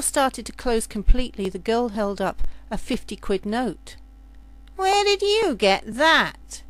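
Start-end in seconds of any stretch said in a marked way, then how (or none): 4.7-6.6 higher and slow, astonished; surprised question. Acted. Captain seeing the fifty quid note, astonished. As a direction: gape at the money.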